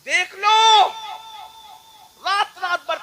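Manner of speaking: high, loud call out; preaching cry. Real, not acted. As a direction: cry it out to the crowd. Preacher's exclamation to crowd. (زور سے پکار)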